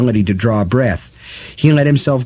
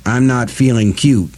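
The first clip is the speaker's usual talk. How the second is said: croaked. Acted. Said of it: "Eddie croaked".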